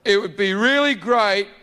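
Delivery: smug god asking for worship; God's voice. Acted. God asks the partygoers to sing for him, lightly voiced. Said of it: "He pipes up again".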